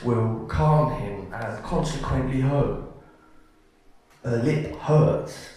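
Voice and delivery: measured list with heavy pauses; narrative poem reading. Acted. Poet telling a couple's seven years together, measured poem reading.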